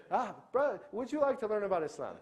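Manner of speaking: high, loud, overeager preacher voice; eager recruiter parody. Retold or imitated. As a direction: ham up a pushy preacher luring a newcomer.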